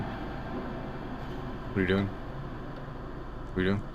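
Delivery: slow, drawn-out creepy whisper. Pretend. Teasing a chatter for spending bits on him, slow whisper. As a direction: breathe the question slowly at them.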